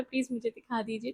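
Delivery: soft, gentle plea; a tender, coaxing request to the doctor; sweetly asking. Retold or imitated. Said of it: "बहुत ही प्यार से बोला".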